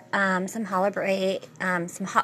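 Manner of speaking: stumbling over the word and breaking off; tongue-tied. Real, not acted. Host fumbling a word about holiday celebrations, tongue-tied. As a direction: trip on the word, restart, then give up. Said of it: "I'm very tongue-tied these holidays".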